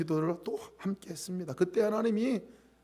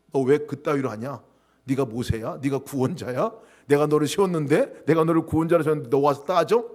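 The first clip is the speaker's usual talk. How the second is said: mock scolding God; 2 semitones lower, 5 dB louder than usual. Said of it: "이러지 않으셨다는 거예요".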